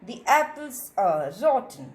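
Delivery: the said as dee before apples; slow model sentence, the rhyming with see; "thee" before vowel. Shown as a demonstration. Teacher reading an example, "thee" before a vowel. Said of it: "will be pronounced as the".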